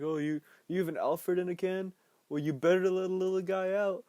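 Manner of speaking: loud, high hammy clown voice; Pennywise. Retold or imitated. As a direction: crack a corny joke as a clown. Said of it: "Pennywise is telling stupid jokes".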